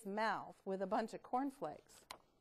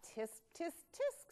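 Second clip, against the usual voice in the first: doctor tutting; 6 semitones higher, 4 dB quieter, slower than usual. Acted. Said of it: "said the doctor".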